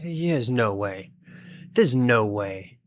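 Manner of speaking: slow, drawn-out "no way"; slow disbelief. Real, not acted. Streamer reacting to news of a Minecraft update, slow disbelief. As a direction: stretch the words out in stunned disbelief. Stunned at possible new update.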